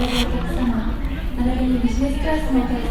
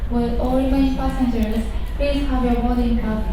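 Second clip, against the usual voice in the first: steady, even boarding call; airport announcement; slower than usual. Real, not acted.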